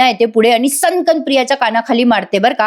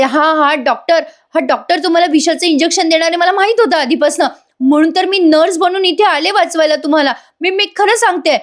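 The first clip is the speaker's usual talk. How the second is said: higher, put-on pleading voice, climbing at the end; scheming daughter lying; 6 semitones higher than usual. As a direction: sell the lie desperately. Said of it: "Priya म्हणत असते". (उंच, नाटकी खोटी विनवणी)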